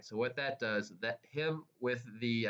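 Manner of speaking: excited stutter, tripping over words. Real, not acted. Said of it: "I'm stuttering here because I'm so excited".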